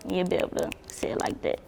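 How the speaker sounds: whispered reassurance; whispered aside. Real, not acted. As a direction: slip into a whisper. Reassuring aside about her name.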